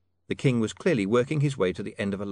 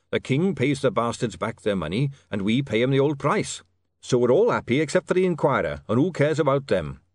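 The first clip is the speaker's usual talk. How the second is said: loud, raised, confident explanation; emphatic dwarf; 4 semitones higher, 4 dB louder than usual. Acted. Goodmountain justifies the deal to William, emphatic. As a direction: argue it briskly and forcefully.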